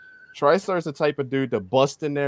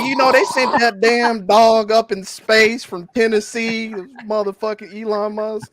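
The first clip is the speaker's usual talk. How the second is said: higher, louder, slow mock rant; mock ranting Bistar; 8 semitones higher, 6 dB louder than usual. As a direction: ham up an obsessed fan's rant.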